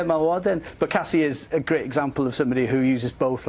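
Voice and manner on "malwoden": Malwoden repeated as mel-WO-den, clear Welsh vowels; Welsh pronunciation. Shown as a demonstration. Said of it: "Very good, yeah".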